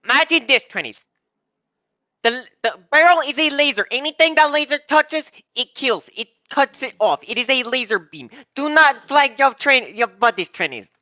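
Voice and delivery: barking orders at trainees; drill sergeant voice. Pretend. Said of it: "a drill sergeant voice".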